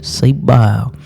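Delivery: a little country twang; catchphrase with a hint of country; country accent. Shown as a demonstration. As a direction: lightly put on a country accent. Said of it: "say it with a little, little country accent".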